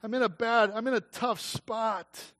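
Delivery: a lightly voiced desperate David; David's plea. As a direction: beg God for help as David. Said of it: "Are you hearing David's plea, David's cry?".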